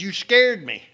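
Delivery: high, loud, shaken protest; startled retort. Retold or imitated. Driver telling Paul he scared him, a loud startled blurt. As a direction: blurt it right after the near crash.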